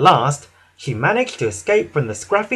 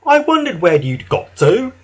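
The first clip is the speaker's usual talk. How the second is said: cheerful high-pitched voice; Whiff; 9 semitones higher, 3 dB louder than usual. A narrator's reading. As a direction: wonder aloud brightly, up high. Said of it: "whistled Whiff cheerfully".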